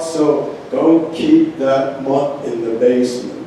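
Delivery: punchy comic verse delivered to an audience; poem reading. Acted. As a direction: read the poem out with deliberate, weighted phrasing. Reads a comic poem aloud.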